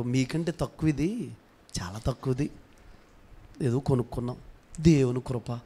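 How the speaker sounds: low, soft self-effacing reply; humble. Acted. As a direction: play it down modestly. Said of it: "తగ్గించుకుని మాట్లాడండి". (వినయంగా, తగ్గించుకుని మెల్లగా)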